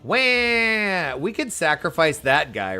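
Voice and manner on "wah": high, loud, hammed-up begging; exaggerated cry for mercy; mock pleading. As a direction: wail like a doomed victim. Voices victim begging before sacrifice.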